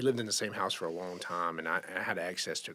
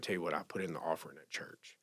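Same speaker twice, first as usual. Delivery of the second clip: soft unvoiced whisper; 4 semitones lower, 5 dB quieter than usual. The widow tells him she'll give the money to church, whispering. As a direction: breathe it out gently, just above a whisper.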